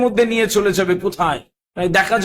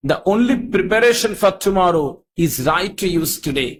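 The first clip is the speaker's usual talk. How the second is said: very slow, words spaced apart; slow quoted proverb; much slower than usual. Shown as a demonstration. Speaker quotes an English proverb to students, very slow. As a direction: spell the proverb out slowly. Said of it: "ইংরেজিতে একটা কথা আছে".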